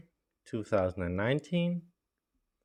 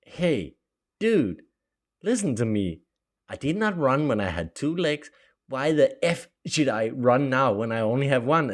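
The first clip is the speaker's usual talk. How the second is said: cheeky retort; 3 semitones higher, 6 dB louder than usual. Retold or imitated. Retold retort to rehab technician.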